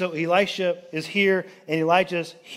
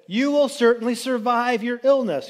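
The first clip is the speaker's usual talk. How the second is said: higher, sugary lying reassurance; false reassurance; 6 semitones higher, 3 dB louder than usual. Retold or imitated. Hazel lies to the dying king, higher sugary reassurance. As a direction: sell the lie sweetly.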